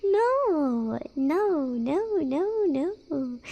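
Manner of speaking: long, high drawn-out moans; mock dismayed wail. Streamer's prank on chat fails, mock dismayed. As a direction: lament it in playful despair.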